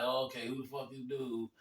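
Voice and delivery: low, soft wary aside; imitated guarded muttering; standoffish, skeptical. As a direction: size him up hesitantly, under your breath. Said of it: "standoffish hesitant".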